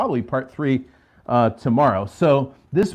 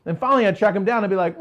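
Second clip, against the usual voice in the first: usual speaking voice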